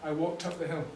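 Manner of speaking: final model of the drill; full drill sentence. Shown as a demonstration. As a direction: stress on "walked", falling tune. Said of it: "this is called back chaining".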